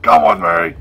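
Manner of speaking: lightly voiced bright elf call. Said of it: "Now talk like an elf".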